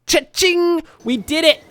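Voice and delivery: high, jubilant cheer; triumphant celebration. Real, not acted. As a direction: crow with delight at a big payout. Celebrating the completed contract.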